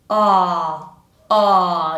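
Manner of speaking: long demonstrative "Ah"; open ah vowel. Shown as a demonstration. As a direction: sustain "Ah" with tongue pulled down and back. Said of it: "my chin kind of goes backwards".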